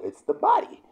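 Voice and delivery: high-pitched, emphatic reveal; voiced high, pitched far above normal; emphatic answer. Real, not acted. Answers his own question, then repeats.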